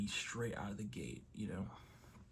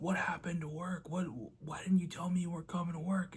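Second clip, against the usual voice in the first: imitating a frantic dad, higher-pitched and urgent; panicked questioning; 6 semitones higher, 4 dB louder than usual. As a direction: demand an explanation as the worried father. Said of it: "he's panicking and he's freaking out".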